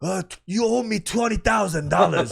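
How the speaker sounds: Asian gangster. Retold or imitated. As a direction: demand the money in a put-on Asian accent. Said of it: "like an Asian gangster dude".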